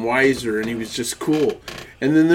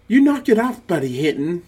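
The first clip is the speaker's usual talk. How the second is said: defensive big brother; 5 semitones higher than usual. Retold or imitated. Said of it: "Peter defends her".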